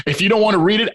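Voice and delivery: laughing through the words; chuckling as he speaks. Real, not acted. Laughing while offering.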